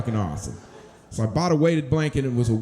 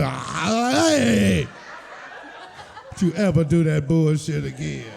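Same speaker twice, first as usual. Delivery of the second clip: mock yell; 3 semitones higher, slower than usual. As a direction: bark it like an angry girlfriend. Girlfriend yelling in retold story.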